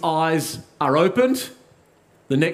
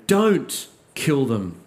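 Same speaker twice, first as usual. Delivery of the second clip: slow pleading command; 3 semitones lower, much slower than usual. Acted. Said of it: "he says".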